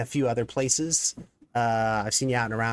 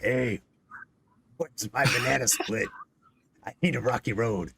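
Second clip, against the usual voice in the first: lightly voiced demanding kid; a hint of a gruff Jersey kid; impression of kids. Dad mimicking his kids begging for ice cream, lightly put-on voice. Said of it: "My impression of my children".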